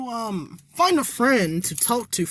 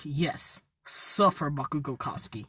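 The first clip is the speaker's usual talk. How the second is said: gloating author; 2 semitones lower than usual. Retold or imitated. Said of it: "And as me, the author, I'm like".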